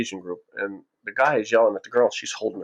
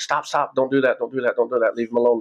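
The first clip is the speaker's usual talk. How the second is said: rapid-fire repeated mock plea; retold urgent plea; 3 semitones higher than usual. Old man tells security to stop, urgent retold plea. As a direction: imitate someone urgently calling off a fight.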